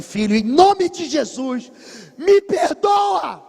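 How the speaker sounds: weeping father crying out for pardon; father begging in tears. Retold or imitated. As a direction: beg your son's forgiveness, voice cracking. Aí o pai chorando.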